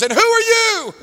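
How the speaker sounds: high-pitched mock-angry challenge; venomous demand. Cursing man confronts the chaplain, venomous imitation. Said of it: "every word of his mouth was just venom".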